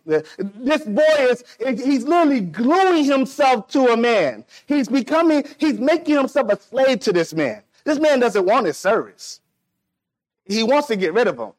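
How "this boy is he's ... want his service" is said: higher-pitched, insistent sermon delivery; impassioned preaching. Real, not acted. Preacher explaining the prodigal's servitude, urgent and raised in pitch. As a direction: drive the point home to the congregation.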